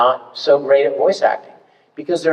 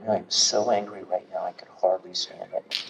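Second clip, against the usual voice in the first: low, much softer, held-in anger; subtle film anger; 9 semitones lower, 10 dB quieter than usual. Shown as a demonstration. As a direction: seethe quietly for a close-up camera. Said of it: "If it's a film, and the camera's right up in your face".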